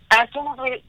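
breathless, gasping between words; running short of air mid-sentence; out of breath. Real, not acted. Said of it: "sorry, I'm running out of breath".

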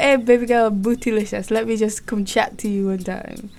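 put-on failed yardie accent slipping into London; London-accented chat-up line, softening as it goes. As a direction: try yardie, land in your own London accent. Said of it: "oh, that's my London accent".

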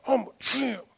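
put-on high childlike answer; little boy reply. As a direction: answer like an eager toddler. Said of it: "son's reply".

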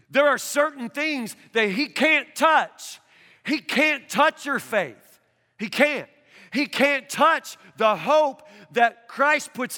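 slow, emphatic preaching shout; forceful preaching. Real, not acted. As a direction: drive it home from the pulpit.

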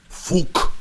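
high, breathless alien laugh-word. Acted. The alien laughs at Gertrude's joke in a high breathless burst. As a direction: spit it out as a creature's laugh. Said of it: "so hörte sich bei ihnen Lachen an".

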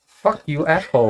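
mock angry. Mock insult to friends.

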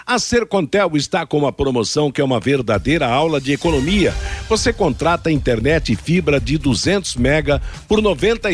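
upbeat radio ad read; hard sell ad. Acted.

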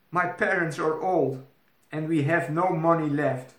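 put-on high, troubled young princess; a princess in distress; anxious princess. Princess continues worrying.

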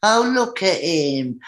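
slow, stretched cooing oh, look at him; drawn-out mock sympathy. Student nurses cooing over naked crying boy, slow mock pity. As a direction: draw out Oh like nurses pitying a boy. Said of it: "and they're going".

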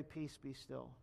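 Jesus stilling the storm, soft and calm; calm command. Retold or imitated. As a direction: hush the storm gently.

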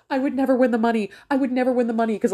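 high, laughing admission; amused. Real, not acted. Admits she would never win the money, laughing. Laughing at her own short fuse.

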